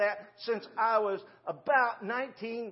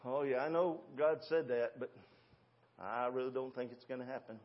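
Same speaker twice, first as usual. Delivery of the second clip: 1 doubter mocked; 8 semitones lower, 6 dB quieter than usual. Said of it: "Let me repeat that".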